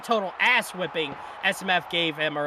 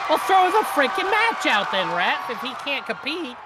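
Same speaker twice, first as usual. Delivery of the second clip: exasperated shout; 6 semitones higher than usual. Real, not acted. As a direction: yell it at the ref, fed up. Complains the ref should stop it.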